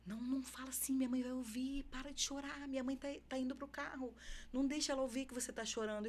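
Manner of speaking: put-on teen brother begging the boy to stop crying; older brother hushing. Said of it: "o Juan falava pra ele assim".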